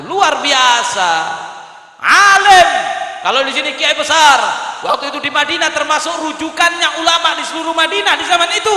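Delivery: loud, high sermon delivery; full-force preaching. Real, not acted. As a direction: preach it hard to a crowd.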